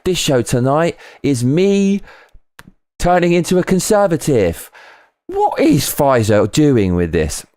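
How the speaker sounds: high-pitched, drawn-out showman's delivery; Russell Brand. Retold or imitated. Streamer imitating a host opening his show, high and theatrical. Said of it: "I felt like Russell Brand there. You know, on his show, he's like".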